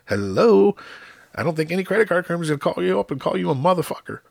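high-pitched mock-obvious comeback; retold incredulity. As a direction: point out the obvious, starting loud and high. Retold exasperated answer to wife.

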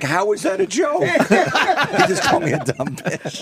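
lightly voiced girl, high-pitched protest; high mock indignation; imitated upset girl. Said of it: "She's like".

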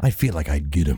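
low growly singer impression. Joking to co-host he'd get on with his idol, a singer impression. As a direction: drop into a deep, gravelly singer's voice. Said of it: "You can do the voice".

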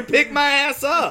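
high, slow, exasperated order; drawn-out hammed-up insistence; mock demand. Walker in Texas heat demanding a ride, exasperated.

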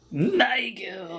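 calling out. Acted. Calling out a character's name.

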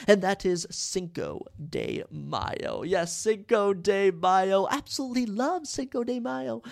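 slow drawn-out hype announcer reveal; showy announcer. Acted. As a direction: stretch it out like a game show reveal. Grand announcement of number eight.

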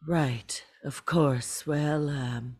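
hushed whisper at a graveside. Acted. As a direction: whisper it so nobody hears. Hushed at funeral.

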